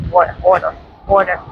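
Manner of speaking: a New York "water" slipping out; New York accent. Real, not acted. Vlogger stumbling over a word by the ocean, New York accent. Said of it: "my very New York accent just came out".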